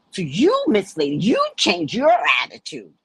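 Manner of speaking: emphatic, punched-out reprimand; sassy telling-off. Retold or imitated. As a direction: lay down the law to her. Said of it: "I had to become all black".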